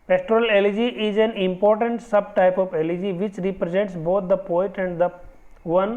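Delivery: reading the definition out word by word, very slow; slow dictation. Shown as a demonstration. Teacher dictating the iambic pentameter definition, very slow dictation. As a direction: dictate it slowly so students can write it down. Reads English definition from slide.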